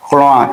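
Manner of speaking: khloa with a slightly nasal vowel; khloa, lightly nasalised ending; nasal syllable. Shown as a demonstration. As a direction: say khloa a little through the nose. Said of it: "c'est un peu nasal".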